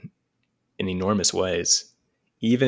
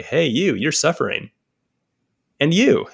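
calling out strangers; 5 semitones higher, 5 dB louder than usual. Retold or imitated. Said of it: "you can walk around and you can say".

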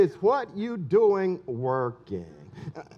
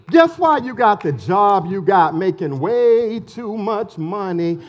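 preaching shout; 6 dB louder than usual. Real, not acted. Preaching climax.

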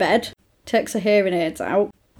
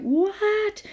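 shocked what; 11 semitones higher than usual. Retold or imitated. Shocked mother reacts.

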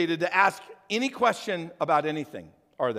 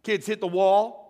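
slow emphatic; 3 dB louder than usual. Shown as a demonstration. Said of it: "You guys know what I'm talking about".

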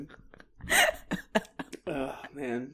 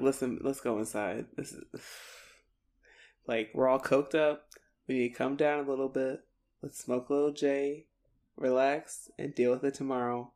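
softer, laid-back reassurance; mellow calming voice; 6 dB quieter than usual. Retold or imitated. Joey settling everyone down for the night, mellow calming voice. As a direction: talk them down quietly, taking it easy.

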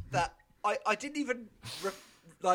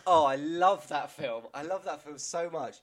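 full sincerity; 3 semitones lower than usual. Retold or imitated. Imitating a teacher gushing about a film, full sincerity. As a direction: imitate heartfelt sincerity, unhurried. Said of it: "in full sincerity".

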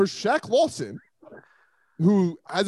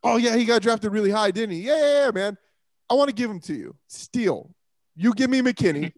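mock prank call. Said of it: "this prank call I do with Houston".

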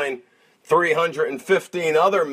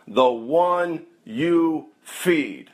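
wise grandfather; much slower than usual. Retold or imitated. Wise grandfather answers in tale.

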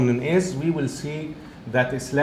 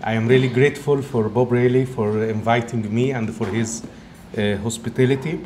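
Egyptian-Italian accent. Real, not acted. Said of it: "it's not the strong Egyptian accent, but it's also combined by an Italian accent".

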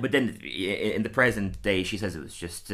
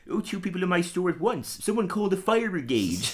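sarcastic nerd voice, higher; mock the customer with dry sarcasm; snide shopkeeper sneer; comic book guy; 8 semitones higher than usual.

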